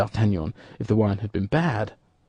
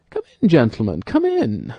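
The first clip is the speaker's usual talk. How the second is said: calling out; 3 semitones higher, 6 dB louder than usual. A narrator's reading. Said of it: "called D'Artagnan".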